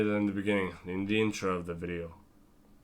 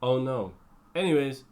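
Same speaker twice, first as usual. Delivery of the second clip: Jeremy Clarkson impression; 3 semitones higher than usual. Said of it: "it's like the Jeremy Clarkson Top Gear one".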